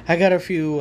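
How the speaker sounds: laughing through the words; chuckling as he speaks. Real, not acted. Laughs on the repeat.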